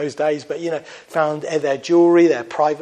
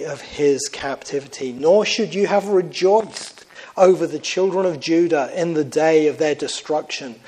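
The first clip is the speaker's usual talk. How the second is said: measured, solemn Bible reading; lightly solemn scripture read. Acted. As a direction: read it out like a pulpit lesson. Reads scripture aloud.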